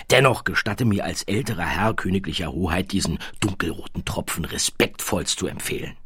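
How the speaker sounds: bow and scrape in clipped military tone; fawning baron. Acted. Baron offers wine.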